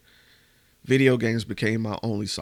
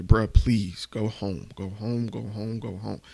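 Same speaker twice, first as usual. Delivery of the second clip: tearful pleading, fading. Retold or imitated. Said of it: "And Deron was in tears".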